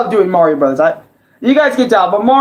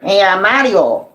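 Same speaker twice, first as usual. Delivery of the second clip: Luigi impression. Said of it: "that's pretty much the Luigi I can do".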